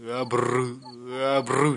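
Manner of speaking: rolled "bru" sound effect; imitated trilled noise. Storyteller mimicking a noise, rolled and repeated. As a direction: trill the r in each drawn-out bru.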